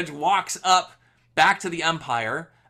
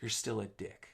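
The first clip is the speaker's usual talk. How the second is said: laughing insult; 5 semitones lower, 11 dB quieter than usual. Retold or imitated. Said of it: "Agassi turns to him and says".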